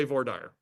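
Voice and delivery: voir dire said as vor-DIRE; majority Missouri pronunciation. Shown as a demonstration. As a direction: voir dire ending like fire. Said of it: "most of them say".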